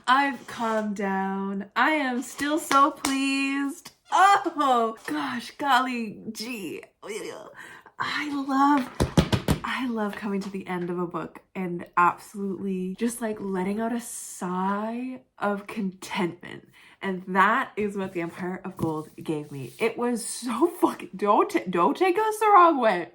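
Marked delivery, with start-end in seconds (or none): 1.8-9.6 high, slow gushing glee; giddy delight. Real, not acted. Giddy happy after finishing book. 19.8-23.1 pitched up, louder burst; excited high burst. Real, not acted. Emphatic excited rant.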